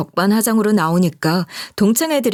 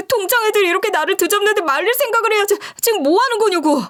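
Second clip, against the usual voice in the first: rising, higher pitched scolding; escalating reproach; 7 semitones higher than usual. Acted. A betrayed wife scolding her husband, pitch climbing. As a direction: berate him more and more.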